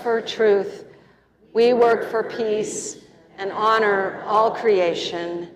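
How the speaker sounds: slow, measured communal recitation; covenant recitation. Real, not acted. Minister leading congregation in reciting their covenant, measured recitation. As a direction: recite it phrase by phrase, drawn out.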